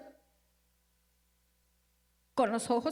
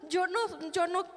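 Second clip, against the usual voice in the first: llanto retomado; 6 semitones higher than usual. Retold or imitated. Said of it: "Estaba llorando, estaba enojada".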